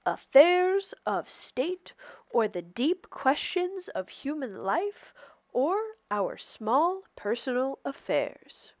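a touch of Papa's stately manner; lightly voiced Papa. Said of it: "as Papa put it".

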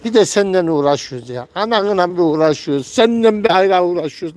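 1 grumbling scolding. Real, not acted. Scolding the bird.

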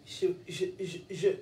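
low, soft and halting; calming down. Real, not acted. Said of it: "je me calme".

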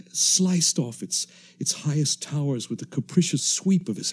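steady, measured radio-drama narration; story narration. A narrator's reading. Narrator recounting the ruined land to listeners, measured and grave. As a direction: tell it like a survivor recalling the ruins.

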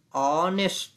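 "honest" starting straight on the vowel; silent H. Shown as a demonstration. Teacher showing an exception, silent H. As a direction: model "honest" with no H sound. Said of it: "حرف اچ در شروع کلمه هست اما تلفظ نمیشه".

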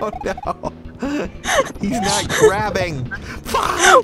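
high, slow frustrated whine; real high-pitched frustration. Real, not acted. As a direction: whine at the game, high and drawn out. Frustrated at game failure.

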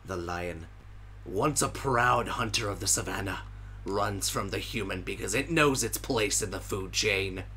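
slow, solemn wildlife narrator; nature documentary narrator. Acted. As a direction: narrate the hunt gravely.

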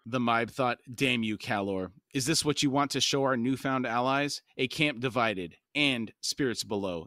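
steady audiobook reading voice; calm novel narration; story narration. A narrator's reading. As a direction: read the chapter aloud, even and measured. Reads novel aloud to podcast.

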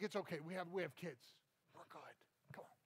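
put-on low, fading murmur to the kids; under-the-breath parental calm; hushed reassurance. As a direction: play it down quietly, herding children along. Parent steering kids away from screams.

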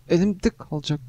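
frustrated snap. Real, not acted. Gamer yells that the keyboard will break. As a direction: bark "Elimde kalacak" through frustration. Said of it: "Elimde kalacak klavye".

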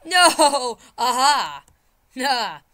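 loud, high drawn-out wail; wailing protest. Pretend. Player watches the character fail at the jets, wailing. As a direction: howl it out in playful despair.

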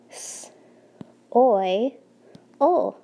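segmenting soil sound by sound; teacher sounding out soil for kids to blend; sounding out each sound. Shown as a demonstration. Teacher sounding out a word for the class to blend. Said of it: "blend with me like we do in class".

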